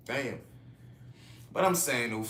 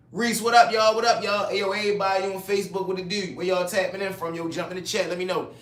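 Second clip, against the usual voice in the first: hype greeting; 4 semitones higher, 5 dB louder, faster than usual. Real, not acted. Greeting Facebook live viewers loudly.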